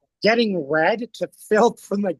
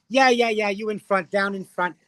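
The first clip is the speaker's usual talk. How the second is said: imitated star, higher then easing down; hailing someone; 3 semitones higher than usual. Actor addresses the man down in front, imitated call. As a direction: briskly pick out the person below.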